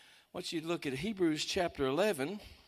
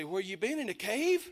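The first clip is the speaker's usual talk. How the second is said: joking disbelief; 2 semitones higher than usual. Retold or imitated. Joking disbelief at her ignorance.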